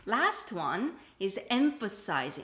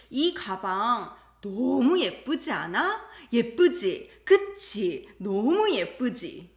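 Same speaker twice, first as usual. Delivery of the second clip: eager asking; 5 dB louder, much faster than usual. Acted. Acting wife praising her bag.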